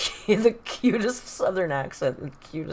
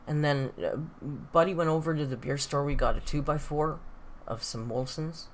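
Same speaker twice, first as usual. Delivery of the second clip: imitating a Northern Ontario local; Northern Ontario accent; 3 dB louder than usual. Streamer mimicking a local's rambling buddy story, Northern Ontario accent. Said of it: "Northern Ontario's like that too".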